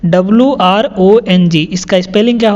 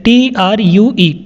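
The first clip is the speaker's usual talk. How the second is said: slow spelling; much slower than usual. Shown as a demonstration. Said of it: "spelling the word slowly".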